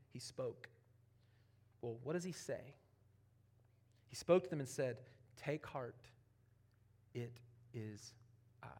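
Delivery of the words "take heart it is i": a soft, unvoiced whisper of comfort; hushed whisper. Jesus calming the terrified disciples, whispered softly. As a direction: breathe the words gently to the frightened disciples.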